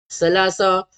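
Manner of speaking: "selasa" with plain s sounds; the mistaken "selasa"; wrong pronunciation. Shown as a demonstration. Teacher imitating parents' mistaken reading. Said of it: "Bukan selasa".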